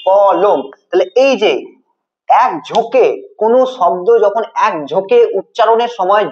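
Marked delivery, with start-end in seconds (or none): 0.1-0.6 কলম divided as ক, then লম; two separate beats. Shown as a demonstration. Teacher recaps syllables for students, কলম in two separate beats. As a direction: give ক and লম a beat each in কলম. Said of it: "কটাকে একবার উচ্চারণ করি আর একবার উচ্চারণ করি লোমকে".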